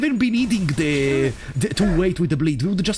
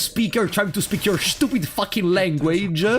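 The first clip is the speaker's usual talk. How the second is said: higher, drawn-out mock apology; sarcastic apology; 4 semitones higher than usual. Non-native speaker answering a rude comment, sarcastic apology. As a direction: start slow and high, indignantly apologetic.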